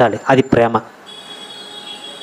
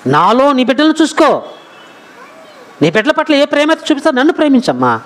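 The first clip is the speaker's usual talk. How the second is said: high plea easing down at the end; imitating a husband earnestly reassuring his wife; comforting appeal; 6 semitones higher than usual. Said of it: "ఎంతగా ఆదరిస్తున్నాడో". (ఆదరంగా వేడుకునే భర్త అనుకరణ)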